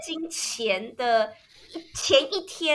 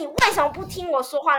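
lightly retold indignation; 4 semitones higher than usual. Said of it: "我觉得".

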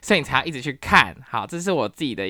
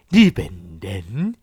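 mock Japanese accent; 4 semitones lower, 5 dB louder, slower than usual. Joking about imitating Japanese instead, in a mock Japanese accent. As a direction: imitate a Japanese person speaking Mandarin. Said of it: "还不如学那个日本人".

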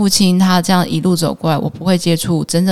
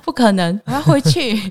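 stubborn resolve; 5 semitones higher than usual. Retold or imitated. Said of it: "想说".

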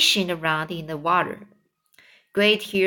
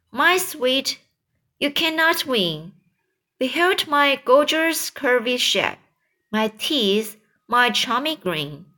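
put-on higher, preening voice of a vain old aunt; vain Aunt Spiker; 3 semitones higher than usual. Vain aunt boasting to her sister, preening and higher.

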